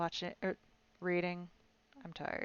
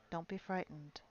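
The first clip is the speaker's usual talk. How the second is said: gentle voice; 8 dB quieter than usual. Acted. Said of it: "said the gentle voice".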